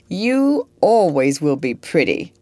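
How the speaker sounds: grave. Acted. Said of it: "said George gravely".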